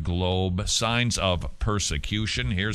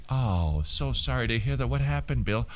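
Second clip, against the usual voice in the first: softer, understated concern; mock sympathy; 3 dB quieter than usual. Co-worker consoling weeping Bill, softly sympathetic. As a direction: gently console him, acted.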